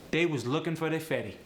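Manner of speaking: AAVE, "They was", "their" as "they"; AAVE version. Shown as a demonstration. Teacher demoing AAVE pronouns. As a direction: slide into AAVE phrasing. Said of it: "In the A A V E dialect".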